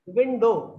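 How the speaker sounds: "विंडो" as two beats, विन then डो; two separate sounds. Shown as a demonstration. Teacher showing a class two syllables, "विंडो" sounded out in parts. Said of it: "दो अलग-अलग sounds को आप एक".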